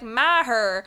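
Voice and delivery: "Maher" with two syllables, MA-her; mispronounced name. Retold or imitated. Friend quoting how they used to say it, mispronounced name. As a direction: say "Maher" the wrong way, with an audible h. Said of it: "I was always like".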